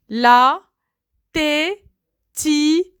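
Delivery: "La", pause, "tétine" with a rising end; syllabified. Shown as a demonstration. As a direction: break "La tétine" into beats. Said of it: "word split into syllables". ("La tétine" détaché, montée à la fin)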